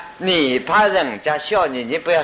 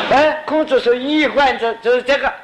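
much higher, laughing through it; amused; 11 semitones higher than usual. Real, not acted. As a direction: tell it while still amused.

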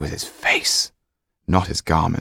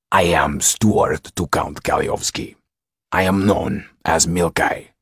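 imposing steward. A narrator's reading. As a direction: play the formidable steward, measured and firm. Voices the count's steward.

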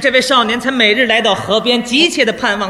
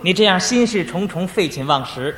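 patient counsel; 3 semitones lower than usual. Acted. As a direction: coax the boy along kindly. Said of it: "因势利导". (耐心开导的语气)

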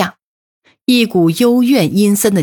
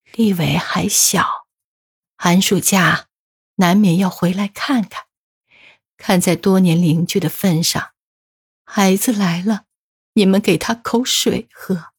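dying words. A narrator's reading. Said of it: "断断续续地说". (临终断断续续地嘱托)

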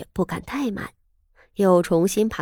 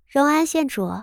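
high, haughty princess; imperious young princess, probing; 4 semitones higher than usual. Acted. Princess questions the county lady.

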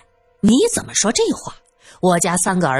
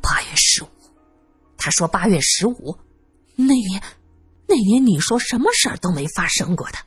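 near-whispered start, halting disbelief; dazed. Acted. Man staring at the widow over that night, dazed. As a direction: begin almost voiceless, stammering as it sinks in. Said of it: "整个人都呆了".

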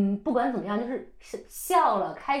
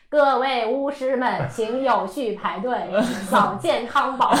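megaphone announcement; 3 semitones higher, 5 dB louder, slower than usual. Retold or imitated. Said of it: "那个喇叭就在，就在喊".

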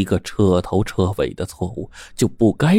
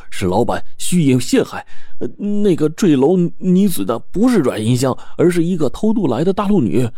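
anxious nephew voice; 4 semitones higher than usual. Acted. Nephew anxiously reports to old man.

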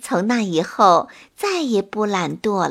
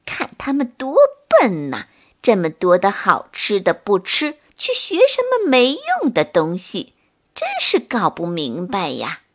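grumbling. Acted. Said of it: "嘴里还嘟囔着".

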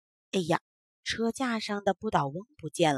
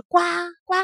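toad croak; 7 semitones higher, 7 dB louder than usual. Acted. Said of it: "叫出来的声音却是".

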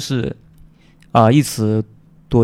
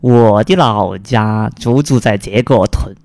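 put-on Cantonese accent in Mandarin; 4 semitones lower than usual. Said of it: "普通话说的不好".

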